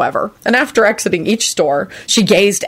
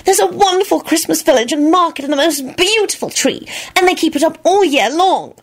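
excited squeal; 11 semitones higher than usual. A narrator's reading. Solange hoping for snow, much higher and gushing. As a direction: squeal it out high with delight. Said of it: "she finished with a squeal".

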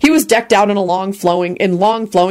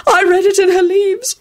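high, drawn-out prophecy of doom; slow down into theatrical tragedy; tragic sighing; 12 semitones higher, slower than usual. A narrator's reading. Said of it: "she sighed tragically".

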